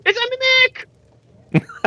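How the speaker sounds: urgent in-character shout; called-out warning. Acted. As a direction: call out a last-second alarm. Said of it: "I call out".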